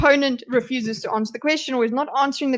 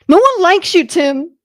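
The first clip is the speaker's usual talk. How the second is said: mock jab; 4 semitones higher, 8 dB louder than usual.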